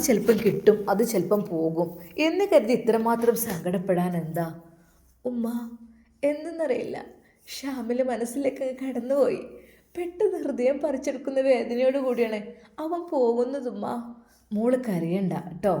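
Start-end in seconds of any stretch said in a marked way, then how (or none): 5.3-13.9 a daughter sobbing out her sorrow to her mother; tearful girl. Acted. Daughter telling mother, in a higher tearful voice. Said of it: "ബുഷി വിതുമ്പിക്കരഞ്ഞു".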